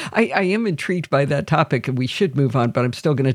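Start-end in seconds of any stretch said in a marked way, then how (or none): none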